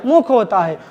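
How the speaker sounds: teacher correcting मुंह to मुख; stress on मुख. Shown as a demonstration. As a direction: lean on मुख, falling tune. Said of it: "मुंह नहीं होता".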